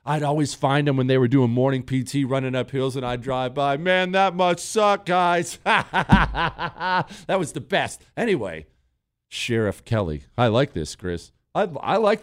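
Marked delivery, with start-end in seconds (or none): 3.8-5.6 slow, drawn-out call through a loudspeaker; slow mocking loudspeaker call; mock loudspeaker taunt. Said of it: "where you can speak into it". 5.6-8.0 laughing through the words; real laughter while speaking. Real, not acted. Laughing at the memory.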